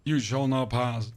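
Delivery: a hammed-up wizard forbidding passage; mock wizard decree. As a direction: boom it out slowly like a wizard blocking a bridge. Quoting the famous wizard line.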